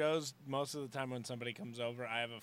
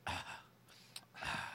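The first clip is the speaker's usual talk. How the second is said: mock exasperated sigh; 7 dB quieter than usual. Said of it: "Joel, just go".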